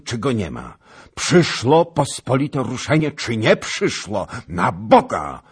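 fiery, high, impatient royal tirade; shouted. A narrator's reading. King fed up with counsels and delay, shouted. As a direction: shout down all delay and command the march. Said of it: "krzyknął".

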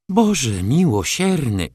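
a touch of tearful complaint; mild moan. Acted. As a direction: wail it like a put-upon aunt. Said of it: "jęknęła ciotka".

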